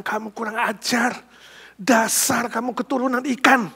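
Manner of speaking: a touch of a furious father; mild angry scolding. Acted. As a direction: scold the son with restrained anger. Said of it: "Sang ayah marah besar".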